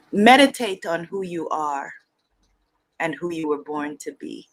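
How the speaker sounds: put-on weighty Igbo-accented pronouncement, falling away; bad Igbo teacher accent. Igbo teacher counselling a student, badly imitated accent. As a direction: advise solemnly in an imitated Igbo accent, pausing midway. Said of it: "for doing a very bad accent".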